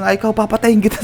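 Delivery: half-joking, fake furious; playful mock anger. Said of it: "nagalit siya, nanggigil siya".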